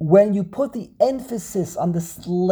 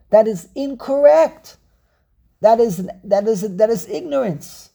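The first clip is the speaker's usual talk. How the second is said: insistent, raised pitch on the verdict; emphatic disapproval; 3 semitones higher, 4 dB louder than usual. Real, not acted. Teacher condemning a mistranslation, emphatic disapproval. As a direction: come down hard on the error.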